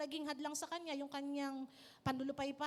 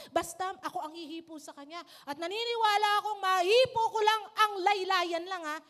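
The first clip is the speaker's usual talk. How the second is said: rising, insistent vow, louder in the middle; determined vow; 7 dB louder than usual. Acted. A desperate woman building her resolve, insistent. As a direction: convince yourself, growing fiercer. Woman's inner thought voiced.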